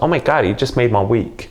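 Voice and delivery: imitated woman's accent, a hint of New York; New York-tinged accent. Coach imitates a woman thrilled by his compliment, light New York accent. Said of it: "exactly in that accent".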